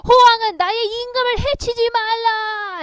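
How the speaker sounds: loud, high, slow battle cry; thunderous shout. Acted. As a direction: bellow it across the battlefield. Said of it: "엄청나게 지르면서 크게 말했다".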